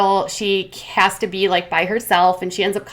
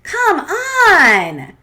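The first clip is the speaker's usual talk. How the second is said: laughing exasperation; 10 semitones higher, 4 dB louder than usual. Real, not acted. Exasperated aside.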